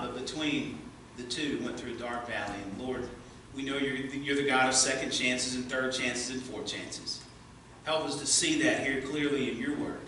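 soft, hushed prayer voice. Acted. Pastor praying for his congregation, soft and humble. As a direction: pray quietly and humbly for the church.

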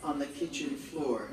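deliberate verse recital with pauses after short phrases; poetry recital, each image set on its own; poem reading. Acted. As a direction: read it line by line, letting each phrase fall. Reads poem titled Courage.

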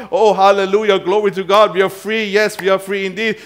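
loud, high-pitched jubilant praise; hammed-up hallelujah rejoicing; mock celebration. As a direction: act out an excited crowd praising God. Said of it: "they're celebrating God".

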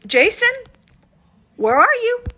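calling out, close to crying; crying out for Jason; tearful calling. Real, not acted. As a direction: plead for him through tears.

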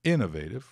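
innovative said British, almost the same as American; innovative with a light, near-American t; a close British take on innovative; British pronunciation. Shown as a demonstration. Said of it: "No inglês britânico é".

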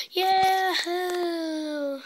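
loud gleeful yahoo, voice up high; joyful yahoo. Real, not acted. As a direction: cheer it out like a cowboy. Cheer while jumping.

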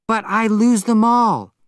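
put-on high-pitched, amused young woman; playful girlish excuse; young, silly protest. A narrator's reading. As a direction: plead helplessly, high and silly. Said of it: "It was young, amused, and silly".

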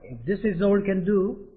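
very slow, every word clear; slow model reading. Shown as a demonstration. Teacher drilling the sentence slowly for the class. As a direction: lay it out slowly for learners. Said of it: "아시겠죠?".

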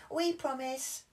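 high hopeful request; high childish request; eager Peppa. Acted. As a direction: ask for a story sweetly. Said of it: "cried Peppa".

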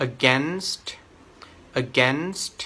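"against" as uh-GENST, hissed S and released T; joined ST ending. Shown as a demonstration. Tutor demonstrates the joined sounds for students, joined ST ending. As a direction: link the ST onto "against" distinctly. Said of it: "เอาไปเชื่อมกับเสียงเมื่อกี้นี้".

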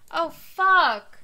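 high, loud startled oh fuck; loud swear. Real, not acted. Streamer remembering a missed event, loud dismay. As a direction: yelp it out in dismay.

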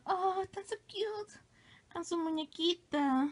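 whispered cooing at a cute picture. Real, not acted. Cooing over cute drawing.

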